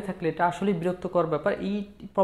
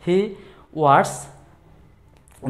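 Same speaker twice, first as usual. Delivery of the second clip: louder, fed-up complaint; annoyed; 6 dB louder than usual. Shown as a demonstration. Teacher shows how to complain about a gossiping time-waster, annoyed. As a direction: push it out with irritation. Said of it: "তুমি বিরক্তির ভাবে বলতে চলো".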